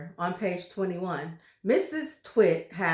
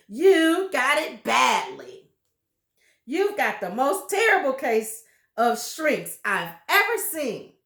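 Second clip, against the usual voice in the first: louder, accusing jeer; accusing husband; 3 semitones higher, 6 dB louder than usual. Acted. Husband pointing finger at wife, louder jeer. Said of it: "pointing his finger like a pistol".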